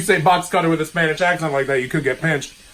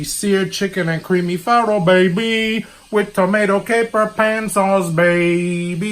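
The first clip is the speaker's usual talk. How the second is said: put-on higher, louder menu call with a baby tag; hyped menu; 4 semitones higher, 4 dB louder, slower than usual. Host hyping the recipe to viewers. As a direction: announce the dish like a hype man.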